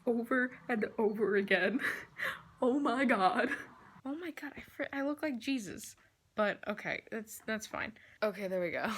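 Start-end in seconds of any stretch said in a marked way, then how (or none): 2.6-8.9 lisping through a retainer; wearing a retainer. Real, not acted. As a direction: talk round a retainer. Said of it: "I have my retainer on in this video and I have a lisp".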